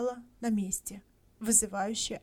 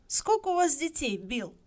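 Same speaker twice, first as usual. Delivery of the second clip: official tone; 6 semitones higher, 5 dB louder than usual. A narrator's reading. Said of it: "уже официальным тоном".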